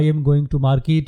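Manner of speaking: "I am going to market" said slowly and evenly; slow example sentence. Shown as a demonstration. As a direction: lay out each word of "market" unhurried. (آہستہ بولا گیا مثال کا جملہ)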